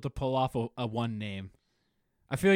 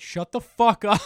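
mock yell; 7 semitones higher, 9 dB louder, slower than usual. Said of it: "he'd be like".

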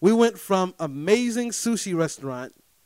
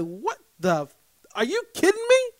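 high, loud indignant rant; exasperated outburst; 8 semitones higher, 5 dB louder than usual. Retold or imitated. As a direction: blow up like the birthday's been stolen. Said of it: "That's how I feel".

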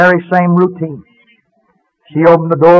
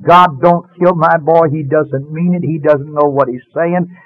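slow, mildly raised plea; retold crying out to God; slower than usual. Mother praying for her boy's life, mild retold cry. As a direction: cry out in prayer, understated and drawn out. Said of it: "start crying out, out loud".

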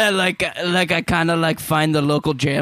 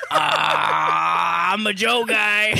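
mock American shout; much slower than usual. American declares he loves coffee.

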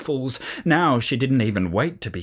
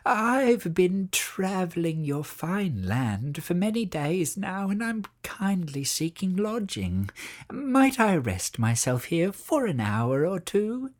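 higher, softer, slow meek plea for lodging; humble witch; 5 semitones higher, 4 dB quieter than usual. A narrator's reading. Disguised witch humbly asking the mother for lodging. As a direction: beg politely like a weary traveller. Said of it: "in her most humble voice".

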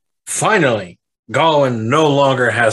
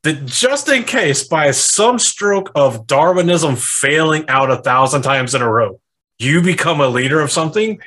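laughing mock scorn; 3 semitones higher than usual. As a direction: laugh while mocking his stupidity. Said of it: "He's like".

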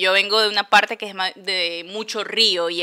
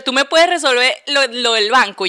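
mildly imitating a lady asking for help, a bit louder; lady asking a favor; 4 semitones higher, 5 dB louder than usual. Lady asking the systems analyst to fix her bank thing, mild. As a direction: beg a favor lightly. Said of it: "me han dicho".

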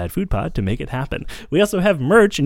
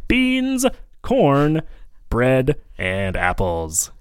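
sports announcer; much slower than usual. Pretend. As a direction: build to a slow big finish. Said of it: "make this sound like a sports announcer".

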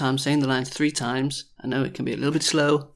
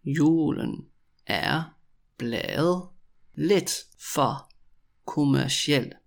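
drawn-out words with clear gaps; very slow, word by word; slower than usual. Shown as a demonstration. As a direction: dictate it slowly to beginners. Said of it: "when I say it really slowly".

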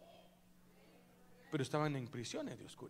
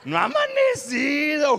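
mock shout; 11 semitones higher, 17 dB louder than usual. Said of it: "Usted dice".

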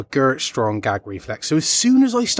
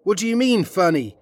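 Joe Pesci impression; 5 semitones higher than usual. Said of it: "Joe Pesci".

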